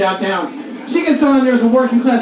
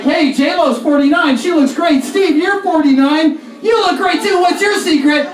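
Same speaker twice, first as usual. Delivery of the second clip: higher, admiring mock voice; people praising; 5 semitones higher than usual. People complimenting Steve on his looks, mock gushing. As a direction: gush over how good he looks. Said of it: "People are like".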